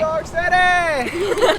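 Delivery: shouting. Real, not acted. Shouting from the car.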